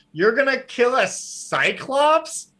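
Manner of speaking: blared out, high and slow; loud blare. Acted. Theo blaring at the girl across the crowd, loud and incredulous. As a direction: blurt it so the whole market hears. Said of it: "blares out loud".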